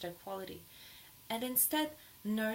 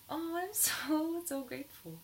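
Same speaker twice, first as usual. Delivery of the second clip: laughing gratitude; 7 semitones higher than usual. Shown as a demonstration. Laughing through affirmation.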